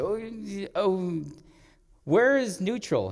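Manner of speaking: high, slow, flustered searching; flustered acted-out question; mock panic. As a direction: play a kid lost at the gearshift. Child panicking, can't find neutral.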